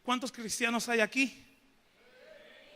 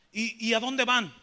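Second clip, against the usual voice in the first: louder, slow imitated interrogation; confrontational; 5 dB louder than usual. Old man with a machete questioning the preacher, confrontational. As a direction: press for an answer, acting the challenger. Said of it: "me empieza a hacer preguntas muy confrontativo".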